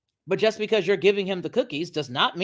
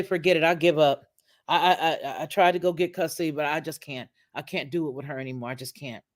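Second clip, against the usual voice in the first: giving up; 3 semitones lower than usual. Retold or imitated. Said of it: "the young men that just say".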